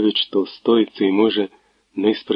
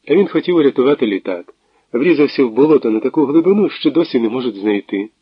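higher, louder, laughing delivery; laughing chatter; 4 semitones higher, 4 dB louder than usual. Acted. Natalia laughs while telling Tverdokhlib about the pilot. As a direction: rattle it off through laughter. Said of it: "Вона сміялася довго і охоче".

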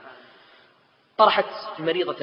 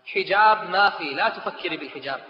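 stern refusal; 3 semitones higher, 4 dB louder than usual. Acted. Mother's curt refusal, slow.

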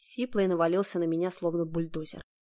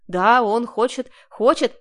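louder, higher, slow frantic cry; desperate shout; 3 semitones higher, 8 dB louder, slower than usual. A narrator's reading. Heroine shouting to the bandits to stall them, loud cry. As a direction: yell it out to save yourself. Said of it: "закричала я".

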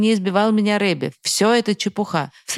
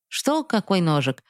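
mocking imitation. Father mocking his son's feigned ignorance, taunting mimicry. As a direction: parrot the kid back at him, sneering. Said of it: "передразнил меня отец".

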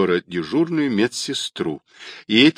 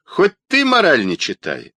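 higher, exasperated outburst; angry; 6 semitones higher, 5 dB louder than usual. A narrator's reading. Caller tired of Rodionov's moralising, angry. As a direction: stretch the opening groan, then snap. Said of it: "разозлился голос".

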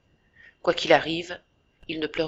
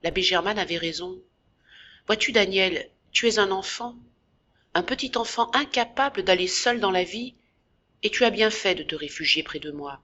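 gentle trembling voice. Acted. Jacques comforting his brother, gentle and lightly trembling. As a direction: comfort him gently, voice barely shaking. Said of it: "d'une voix douce qui tremble".

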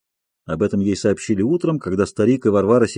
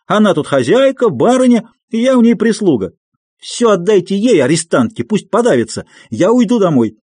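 much higher, furious shrieking tirade; screaming with all her might; 7 semitones higher than usual. A narrator's reading. Aksinya screaming at the old man and Varvara, much higher and furious. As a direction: scream the grievances at the family, no holding back. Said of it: "кричала она изо всей силы".

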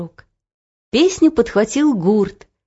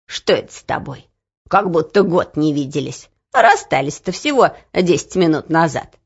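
grandmother voice; 3 semitones lower than usual. Acted. Grandmother puzzled.

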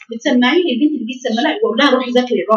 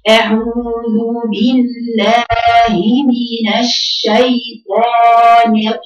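very slow, drawn-out recitation, broken off at the ra; slow recitation demo; much slower than usual. Shown as a demonstration. Tajweed teacher slowly reciting to her class, very drawn out. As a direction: recite each word at a crawl to show the ra. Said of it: "ازاي اقراها صح؟".

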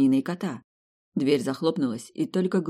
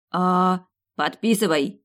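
barking; 2 semitones higher, 4 dB louder, slower than usual. Acted. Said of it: "рявкнул Васька".

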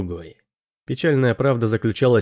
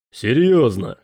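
doubtful, incredulous question; skeptical; 3 dB louder, slower than usual. A narrator's reading. Morley questioning the pirate crew about the vote, skeptical. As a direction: ask it with understated skepticism. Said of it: "скептически сказал Морли".

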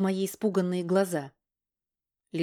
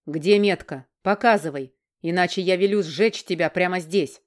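angry threat; 4 dB louder than usual. Acted. King threatening to burn her.

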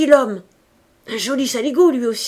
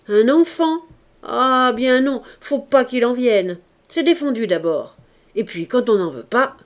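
aghast; 3 semitones higher, 7 dB louder than usual. A narrator's reading. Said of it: "effarée".

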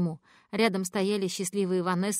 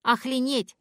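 put-on a child's loud echo of the swear; child repeating; 5 semitones higher, 4 dB louder, slower than usual. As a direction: parrot the word like a toddler. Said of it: "повторил Ноа". (ребёнок громко повторяет «Охренеть!»)

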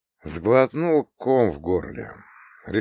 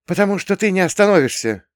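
sad; 11 semitones higher, 6 dB louder, faster than usual. Acted. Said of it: "грустно улыбнулась".

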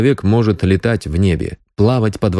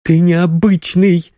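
high, slow insistence; objecting; 10 semitones higher, slower than usual. A narrator's reading. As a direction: protest that he is special. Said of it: "возразила Соня". (возражая, медленно и выше)

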